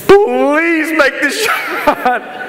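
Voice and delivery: hammed-up high, drawn-out begging; desperate plea. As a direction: beg for it in a high, stretched voice. Acts a panicked player praying.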